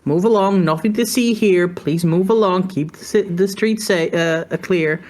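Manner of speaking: a hint of a cop moving the crowd on; lightly voiced crowd control; police order. Deputy telling staring bystanders to move along, lightly voiced. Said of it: "flash the badge and say".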